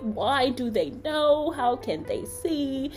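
retold humiliation, mildly played up; embarrassed. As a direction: agonise over being found out. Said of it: "it's like this embarrassment".

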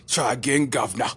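lightly mocking English kid; cheeky put-on English accent. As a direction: taunt with a hint of English accent. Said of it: "I wanna give him an English accent".

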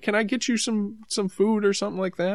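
a hint of a sweet older lady; kind lady. Lady offers food.

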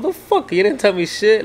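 sharp high yelp on motherfucker, then angry; mock angry outburst. Imagined guy in the restroom blaming him, mock angry. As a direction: play the guy blaming you, pitch jumping up. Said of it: "probably gonna be like".

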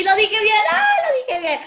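real gleeful boast; excited triumph. Real, not acted. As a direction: celebrate getting the word right. Proud she said it right.

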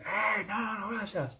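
high, held-back mock yell; squealed warning, softly imitated; mock scream. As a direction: act out an alarmed cry without volume. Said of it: "Me grita".

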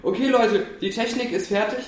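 loud, breezy boss announcing release; careless developer boss. Retold or imitated. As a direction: rush it out like a slapdash studio boss. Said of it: "als wenn da wirklich einer so gesagt hätte".

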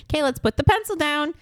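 patient teacher voice. Retold or imitated. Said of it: "the teacher just like".

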